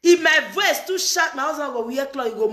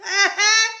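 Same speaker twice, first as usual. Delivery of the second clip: higher, laughing complaint; 6 semitones higher than usual. Real, not acted.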